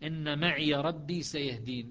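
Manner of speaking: slow recited verse; Quran recitation. Shown as a demonstration. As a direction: chant the verse slowly. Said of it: "قال".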